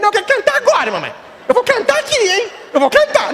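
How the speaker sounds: put-on high kid's tantrum with a laugh in it; stubborn little boy. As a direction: push it like a small kid who won't wait.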